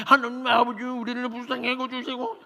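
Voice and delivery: high, pouty mocking prayer; children imitating the pouty prayer; kids mimicking prayer. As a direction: copy the elder's prayer teasingly. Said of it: "성대 묘사를 하고 있더라는 거예요".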